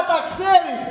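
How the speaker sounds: a laugh over the words. Acted. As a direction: caught out, laughing it off. Husband caught, laughs it off.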